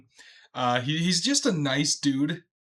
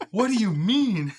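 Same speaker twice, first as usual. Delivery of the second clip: higher, louder puzzled question; baffled, reacting to the line; raised, incredulous what; confused; 6 semitones higher, 4 dB louder than usual. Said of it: "that, I was".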